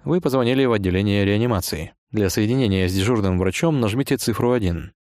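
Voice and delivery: even, formal recorded-message voice; answering machine voice. Pretend. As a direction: read it like a phone menu. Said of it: "отвечаешь голосом автоответчика".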